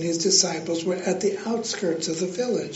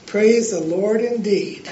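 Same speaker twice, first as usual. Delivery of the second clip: chuckling as the words come out; laughing; 4 dB louder than usual. Real, not acted. Preacher amused by his own joke, laughing praise. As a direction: laugh through the line, amused.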